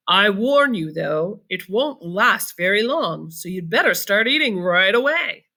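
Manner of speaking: a hint of a wry Willy Wonka; lightly voiced Wonka. Mister Wonka warns the prince, lightly voiced.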